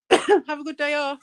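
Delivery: hoarse, throat catching after cough; frog in throat. Real, not acted. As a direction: talk through a frog in throat. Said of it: "I've got a frog in my throat".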